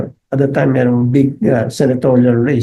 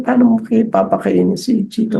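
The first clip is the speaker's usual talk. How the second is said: high-pitched mock shout at the brother; domineering aunt shouting at the brother, mock yell; retold yelling aunt; 7 semitones higher than usual. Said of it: "Sumisigaw yung auntie ko".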